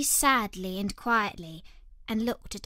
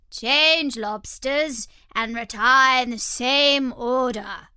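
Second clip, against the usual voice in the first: calling out; 3 semitones higher, 7 dB louder, slower than usual. A narrator's reading. Gryphon calls dance instructions.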